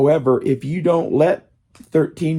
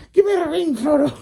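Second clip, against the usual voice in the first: very high, put-on Asian woman's accent; half-failed mock Asian woman's accent; 14 semitones higher than usual. Speaker jokingly attempts an Asian woman's accent, very high pitched. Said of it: "do an Asian woman's accent".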